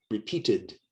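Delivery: "repeated" ending in an id sound. Shown as a demonstration. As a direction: say "repeated" as re-peat-id. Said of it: "the E D sounds like id".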